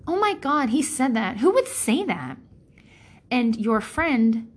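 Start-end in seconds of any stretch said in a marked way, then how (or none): 0.1-2.4 high, scandalised oh my god; outraged gossip. Retold or imitated. Telling a friend about someone awful, scandalised. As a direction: gasp at the nerve of him.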